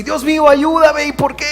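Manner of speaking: high, loud cry to God; a troubled believer crying out to a silent God; anguished plea. Retold or imitated. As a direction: beg heaven for an answer.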